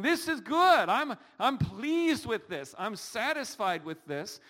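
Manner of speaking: high, loud, pleased exclamation; delighted. Shown as a demonstration. Preacher showing the congregation real joy, delighted. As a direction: sound truly pleased with life. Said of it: "joy is actually feeling".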